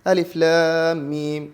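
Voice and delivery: slow recitation, voiced aloud for the class; a student's slow Quran recitation, said aloud; student reciting aloud. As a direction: recite as the first student opening the reading. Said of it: "Shehzad ഓതാൻ തുടങ്ങി".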